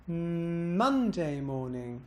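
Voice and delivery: long hummed M, "Monday" swoops up, "morning" glides down; slow, intoned, pitch peak on "Monday"; bounce on Monday. Shown as a demonstration. Teacher showing emphasis choice, bouncing on Monday. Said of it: "Listen again".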